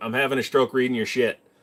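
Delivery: ordinary talk, nothing marked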